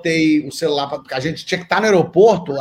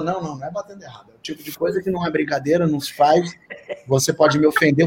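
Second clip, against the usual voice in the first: offended lecture; 2 semitones lower, faster than usual. Retold or imitated.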